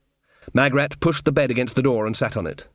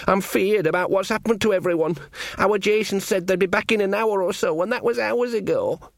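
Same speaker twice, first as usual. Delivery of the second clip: put-on higher-pitched anxious young soldier; worried Sean Ogg; 7 semitones higher than usual. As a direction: voice his fear, high and fretful. Narrator voices worried Sean in a story.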